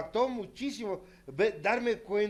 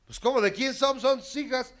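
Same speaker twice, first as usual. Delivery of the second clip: high, louder mocking scold from others; voz de reproche; 8 semitones higher, 5 dB louder than usual. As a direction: tell him off as if it were obvious. Others scold him about daughters. (voz aguda de regaño burlón)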